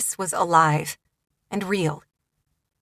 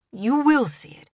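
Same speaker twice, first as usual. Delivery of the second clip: sincere, higher promise; promising; 6 semitones higher than usual. Acted. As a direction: promise it warmly. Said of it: "he promised".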